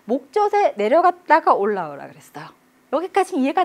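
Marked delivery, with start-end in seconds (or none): none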